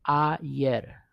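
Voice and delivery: Ayer as "ah-YER"; pronunciation demo. Shown as a demonstration. Teacher modelling Ayer for Spanish learners, said "ah-YER". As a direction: sound out Ayer, opening on a clear "ah". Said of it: "just how it sounds".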